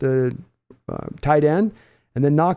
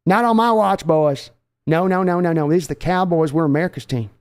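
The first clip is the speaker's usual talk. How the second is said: Jerry Jones impression. Owner gloating to Seahawks fans after a one-point win, folksy brag. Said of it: "Oh, I got a Jerry Jones for you".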